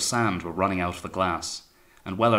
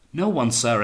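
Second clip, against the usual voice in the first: louder, raised-pitch protest; alarmed denial; 5 semitones higher, 6 dB louder than usual. A narrator's reading. Wellard answering the raging captain, alarmed. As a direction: answer urgently, voice pushed up.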